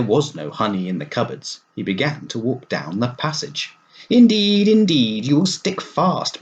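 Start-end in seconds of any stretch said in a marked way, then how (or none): 4.1-6.4 high, loud fussed alarm; alarmed warning. Acted. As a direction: warn the fat toad he'll get stuck. Worried he gets stuck.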